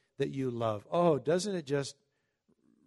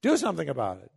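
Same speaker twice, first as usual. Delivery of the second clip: higher, louder urging; mild mock urgency pressing David to act; hammed-up protest; urgent plea; 7 semitones higher, 5 dB louder than usual. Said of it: "We want to say".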